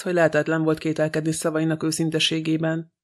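ordinary delivery, nothing marked

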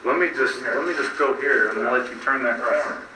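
theatrical, over-the-top delivery; hammy stage actor. Real, not acted. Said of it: "I'm kinda hamming it up there".

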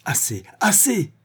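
high-pitched exasperated outburst. A narrator's reading. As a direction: cut him off, at the end of patience. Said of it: "proféra Vorski exaspéré". (exaspéré, voix montée)

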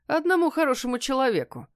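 captor's sly grin in his voice; with a smirk. A narrator's reading. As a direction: let the smirk into the words. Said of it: "сказал он с усмешкой".

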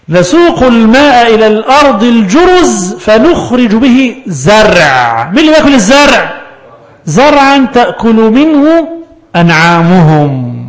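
slow, drawn-out chanted recitation; Quran recitation. Acted. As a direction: recite the verse slowly, stretching the vowels. Quran recitation inside lesson.

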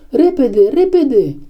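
high-pitched, urgent cry; urgent shout. A narrator's reading. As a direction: cry it out high, hurrying the others. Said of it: "țipă el". (strigăt urgent, pe ton înalt)

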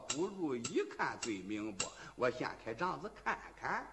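quiet suspicious soliloquy; inner thought. A narrator's reading. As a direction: think it through privately, under the voice. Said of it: "杨柳心说".

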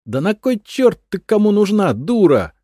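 high, loud scornful curse; angry swearing. A narrator's reading. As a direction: snap it at her with contempt. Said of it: "выругалась блондинка".

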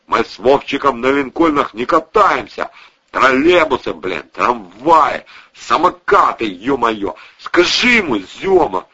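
loud, indignant street-tough rant; coarse, worked-up gangster voice; ranting thug. Acted. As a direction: complain loudly to the gang. Protasov ranting about transport.

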